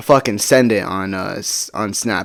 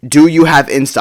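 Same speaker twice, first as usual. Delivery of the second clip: louder, emphatic retold question; all-caps demand; 3 semitones higher, 4 dB louder than usual. Asking her one more time over Snapchat, all-caps demand. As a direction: hit each word like typing in caps. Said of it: "I put in all caps".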